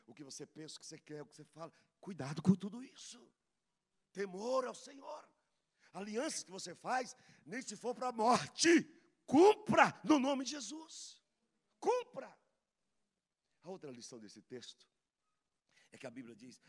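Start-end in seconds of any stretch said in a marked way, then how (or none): 2.0-12.3 rising to a loud, slow, high cry; preaching shout. Real, not acted. Preacher crying out a warning to the church, loud. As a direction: hammer the warning home at full force.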